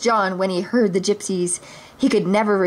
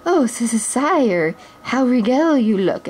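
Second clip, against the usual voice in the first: hissy stammering flatterer, a touch higher; a snake flattering his prince; 4 semitones higher than usual. Acted. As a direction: fawn over the prince. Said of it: "admired Sir Hiss".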